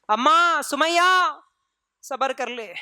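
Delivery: slow, drawn-out gentle consolation; comforting. Retold or imitated. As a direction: soothe her, stretching the name. Prophet comforts old Sumayya. (دھیمی تسلی بھری آواز)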